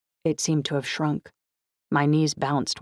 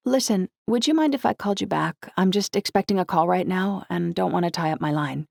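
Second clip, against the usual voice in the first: put-on higher-pitched girl making excuses; teenage heroine, putting him off; 5 semitones higher than usual. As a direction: voice a teenage girl politely stalling. Narrator voices young heroine.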